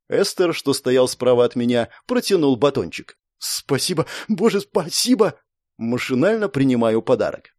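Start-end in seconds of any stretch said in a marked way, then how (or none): 3.4-5.3 overwhelmed gratitude. A narrator's reading. Rescued hero taking a chocolate bar, overwhelmed gratitude. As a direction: gush with relieved gratitude.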